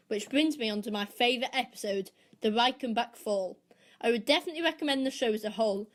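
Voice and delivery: measured, prepared podcast review; scripted review read. Acted. Podcast host recommends Sherlock to listeners, reading a scripted review.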